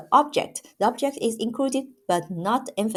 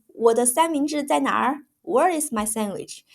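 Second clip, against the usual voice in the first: raised, indignant demand for the missing food; mock angry shout; 6 semitones higher than usual. Roommate shouting about his missing sandwich, mock angry. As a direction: play the furious roommate, pitched up.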